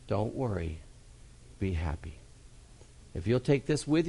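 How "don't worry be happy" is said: don't worry be happy. Acted. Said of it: "soft closing catchphrase".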